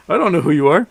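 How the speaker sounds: lightly imitated puzzled Brit; mock British accent. British roommate to a friend's supposed dad, puzzled mock British accent. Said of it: "who's British".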